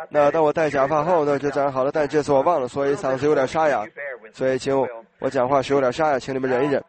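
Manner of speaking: a scratchy, hoarse voice. Real, not acted. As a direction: push through a sore throat.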